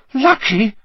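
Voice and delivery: high, incredulous squeal; indignant shriek. A narrator's reading. Hermione answers Ron's remark on luck, shrieking. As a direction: shriek it in disbelief. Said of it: "shrieked Hermione".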